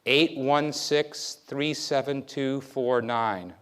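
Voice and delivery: each digit spaced and set apart; a memory tester reading digits aloud. Shown as a demonstration. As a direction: dictate the numbers one by one for recall. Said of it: "I'm gonna read to you numbers".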